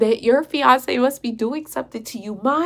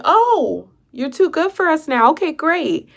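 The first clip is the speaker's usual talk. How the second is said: drawn-out "oh", then pitched up in mock offence; sarcastic retort; 4 semitones higher, slower than usual. Woman retorts to fiancé with his new headphones, sarcastic. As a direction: act affronted and dismissive.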